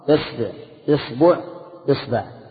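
إصبع with i on the first vowel: isbi, isbu, isba; teacher drilling the i forms of إصبع. Shown as a demonstration. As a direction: sound out إصبع starting with i. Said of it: "كسرها".

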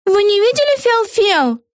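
very high, slow asking voice; cheery witch. A narrator's reading. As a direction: innocent question. Eggi asks.

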